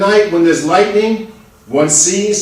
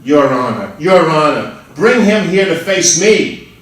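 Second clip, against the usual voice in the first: urgent demand; 4 dB louder than usual. Acted. Accused barber to the judge, urgent demand. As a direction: demand the husband be brought.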